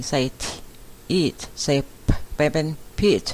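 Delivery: "peat" built up slowly from a long E, then T and P; sounding out peat. Shown as a demonstration. Teacher building the second syllable of repeat, sounded out slowly. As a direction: blend "eat" into "peat", sound by sound. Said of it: "ออกเป็นเสียง E".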